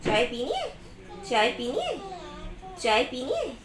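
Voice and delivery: "चाय पीनी है" with a sharp lift on "है"; coaxing question. Shown as a demonstration. Therapist prompting a child to answer, "है" lifted high. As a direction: ask "चाय पीनी है" brightly rising at the end.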